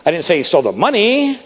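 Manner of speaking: money lifted and stretched at the end; stress on MONEY. Shown as a demonstration. Speaker shows how stress shifts meaning, stressing money. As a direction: land the weight on money. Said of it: "same words with different inflections".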